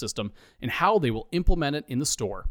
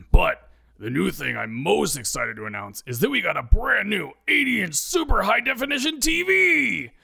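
enthusiastic; 8 semitones higher than usual. Acted. Ed announces the new TV to his staff, rising excitement. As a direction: build up to the big reveal. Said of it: "Ed says enthusiastically".

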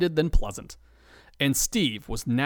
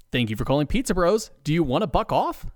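pleasant; 3 semitones higher, faster than usual. Acted. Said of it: "Steve pleasantly asks".

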